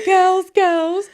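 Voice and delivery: high, loud Welsh greeting; Welsh accent. Retold or imitated. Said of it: "In a Welsh accent".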